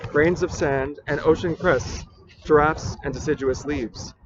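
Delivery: measured, deliberate poem recital; poetry reading. Acted. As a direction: read it as verse, pausing between phrases. Rereads the poem aloud.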